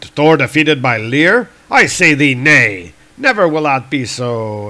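loud, heroic refusal; defiant thunder god. Acted. Thor rejecting defeat by Lear, loud indignation. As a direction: declaim it in grand comic-book style.

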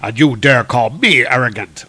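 loud indignant retort; a touch of warrior outrage. Acted. Thor answering the villain's taunt, loud indignation.

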